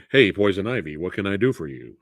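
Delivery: lightly put-on suave hero impression; a hint of a movie Batman greeting; George Clooney Batman. Greeting Poison Ivy, lightly impersonated movie Batman. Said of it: "my George Clooney Batman impression".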